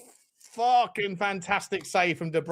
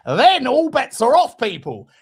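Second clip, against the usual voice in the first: excited declaration; 2 semitones higher, 6 dB louder than usual. Real, not acted. Hyping the fourth drink.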